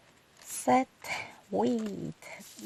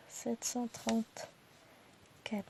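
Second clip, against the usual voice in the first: drawn-out murmured repeat of the number; careful slow recount, almost to yourself; slow soft repeat; 9 dB quieter, much slower than usual. Real, not acted. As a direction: say it again slowly under your breath. Repeats number slowly to herself.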